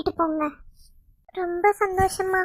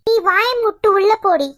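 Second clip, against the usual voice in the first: loud, sharp shout to shut her up; angry shout; 6 dB louder than usual. Acted. Old mother-in-law angrily shouts at the daughter-in-law to go inside.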